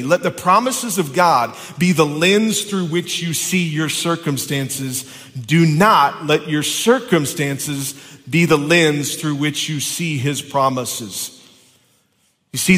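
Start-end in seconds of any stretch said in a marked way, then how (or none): 0.0-11.3 slow, emphatic restatement; slow, deliberate repeat for the congregation. Shown as a demonstration. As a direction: say it again slowly so it sinks in. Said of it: "Let me say that again so you understand".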